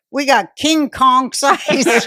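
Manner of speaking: slow, high mock Asian accent; drawn-out exaggerated Asian accent. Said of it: "I'm gonna do my Asian accent now".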